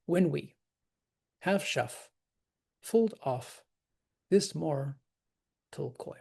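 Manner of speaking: "When we / have shuff / fold off / this mortal / coil" with gaps; separated into feet. Shown as a demonstration. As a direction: pause after each two-beat foot from "When we" to "coil". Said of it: "separated into feet".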